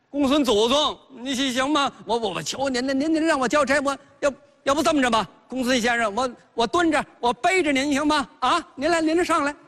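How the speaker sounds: pleading. Acted. Bao Xing begs Gongsun to return.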